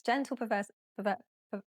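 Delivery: gentle pervers- tripping over the word perseverance; tongue-tied stumble. Real, not acted. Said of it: "Trying to sound".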